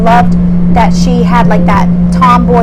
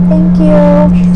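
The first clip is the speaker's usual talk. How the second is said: shy Aaliyah; 5 semitones higher than usual. Retold or imitated. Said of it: "she was, like, really shy".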